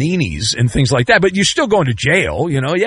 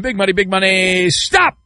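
game show contestant; 3 semitones higher than usual. Acted.

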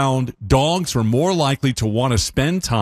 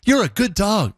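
higher sing-song praise for a dog; dog baby talk; 8 semitones higher than usual. Shown as a demonstration. Host demoing baby talk to a dog, higher sing-song. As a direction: coo it like talking to your puppy. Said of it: "I can't get high enough".

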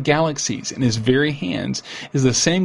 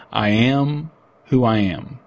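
voice of God; slower than usual. Retold or imitated. God answers Moses.

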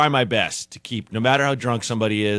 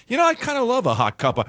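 cartoon drunk sailor; 11 semitones higher, faster than usual. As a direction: ham up a sloshed sailor wanting coffee. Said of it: "beyond cartoon sailor drunk guy".

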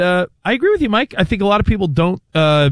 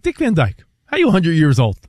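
amazed. Retold or imitated. Acting out amazement at Dick Van Dyke.

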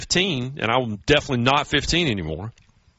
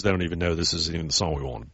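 mock whisper; 6 semitones lower, 5 dB quieter than usual. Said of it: "my wife whispers to me".

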